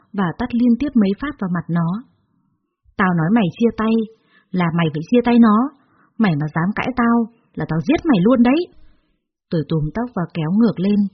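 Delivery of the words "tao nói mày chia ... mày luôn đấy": angry threat. Acted. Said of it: "Tôi vẫn đang tức giận".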